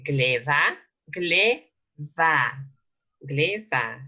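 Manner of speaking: "gleva" with a clear V starting the second syllable; V sound. Shown as a demonstration. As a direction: model "gleva" as gle plus va, with a V sound. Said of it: "So this is V".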